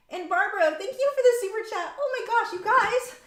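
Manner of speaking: very high, squealed thanks; overwhelmed gratitude. Real, not acted. Streamer thanking a second viewer for super chat, overwhelmed. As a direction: pitch shoots up, bowled over by generosity. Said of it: "I'm so going to cry".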